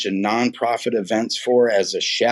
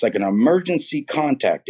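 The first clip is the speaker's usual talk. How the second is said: ordinary talk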